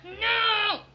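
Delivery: loud, high warning no; sharp no. Real, not acted. Mom stopping her toddler, loud high warning no. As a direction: snap out a warning.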